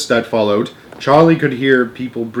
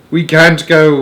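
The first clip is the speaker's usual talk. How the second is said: wailing; 4 semitones higher, 5 dB louder, slower than usual. Acted. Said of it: "wailed Grandma Georgina".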